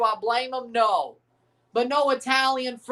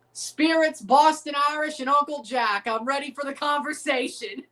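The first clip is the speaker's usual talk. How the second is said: Tommy Shelby quote; 3 semitones higher than usual. Retold or imitated. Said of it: "that was a Tommy Shelby quote".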